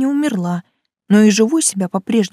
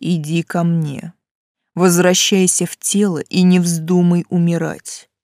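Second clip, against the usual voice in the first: commanding; 2 semitones lower than usual. Acted. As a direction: order her back firmly. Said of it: "приказал он".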